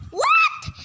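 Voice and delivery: high squeaky shocked yelp. Acted. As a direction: shriek it in alarm. Shocked by oxygen news.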